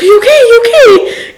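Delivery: high, anxious repeated check; mock-alarmed boyfriend asking twice; worried are you okay. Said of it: "he's like".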